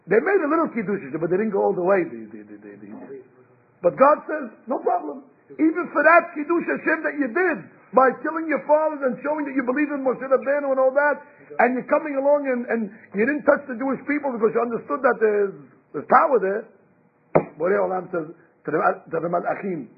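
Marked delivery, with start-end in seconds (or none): 4.6-16.6 God speaking. Retold or imitated. God reassuring the Egyptians, raised and proclaiming.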